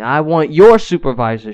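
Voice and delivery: retold irate demand with extra volume; amped-up customer. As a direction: imitate an insistent customer, punching it out. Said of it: "gets amped up and is getting all crazy".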